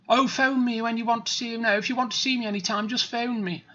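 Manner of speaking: put-on posh accent, lively and lilting; mock posh accent. Fooling wealthy admirers into phoning, put-on posh accent. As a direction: play at a well-to-do posh accent. Mimics himself posing as rich.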